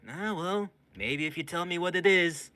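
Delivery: high, lilting persuasion; airy coaxing. Acted. Myrna coaxing the rat to explain, high and airy. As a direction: coax the frightened captive in a high voice.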